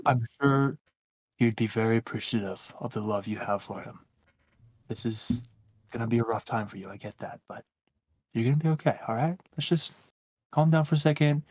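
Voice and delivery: soft, soothing reassurance; calming. Acted. Adventurer soothing the weeping servant, soft and gentle. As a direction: talk him down gently, quietly.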